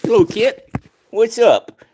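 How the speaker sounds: high, loud, bubbly hello; cutesy greeting. Real, not acted. Streamer greeting a viewer in a high, loud, bubbly voice.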